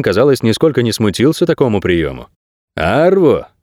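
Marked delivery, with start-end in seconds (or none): 2.8-3.5 «Арво» lifted, then falling, between question and call; half-asking, half-calling. A narrator's reading. Visitor at the door calls «Арво», half-asking. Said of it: "полуспросил, полупозвал он".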